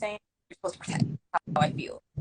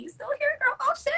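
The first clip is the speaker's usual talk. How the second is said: much higher, excited surprise; surprised delight. Real, not acted. Greeting Sydney who is still on the stream, surprised. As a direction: squeal that she's still here.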